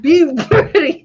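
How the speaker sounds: high loud drawn-out "be ready"; over-the-top call. Acted. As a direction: ham it up like a hype call. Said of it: "That was so much".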